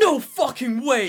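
loud, high, stretched disbelief; shocked. Real, not acted. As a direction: blurt it out in shock. Shocked reaction to cosplay story.

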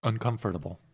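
"Uncomfortable" carefully split into all its syllables; every syllable pronounced. Real, not acted. Co-host insisting on the full word, "Uncomfortable" syllable by syllable. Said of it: "You say every fucking syllable".

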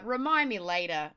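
pained half-shout at the prompt; frustrated cry. Real, not acted. Cursing Adobe update popup, pained frustrated cry. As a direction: groan it out in exasperation.

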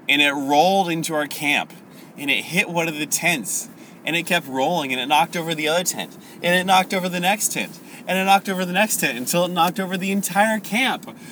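increasingly high, animated retelling; building dream account. Acted. Soldier telling comrade his dream, excitement building. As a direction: build the pitch with each thing knocked over.

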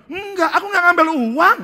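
high, loud insistent no; loud denial. Acted. Third pastor denying to his friends, loud high denial. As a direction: refuse flatly and loudly.

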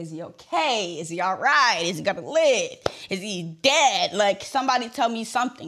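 reenacted worried pleading; panicked questioning. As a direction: fire anxious questions, hitting each last word. Replaying her panicked racing thoughts.

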